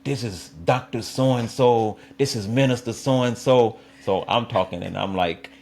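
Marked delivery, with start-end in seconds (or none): 0.0-3.8 imitated Shah Greer introductions. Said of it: "Shah Greer always would say".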